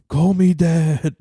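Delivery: slow, lightly menacing mock demand; slow creepy demand. Cohost plays creepy Brady, a slow mock demand. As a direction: say it slowly like a creep. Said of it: "creepy Brady role".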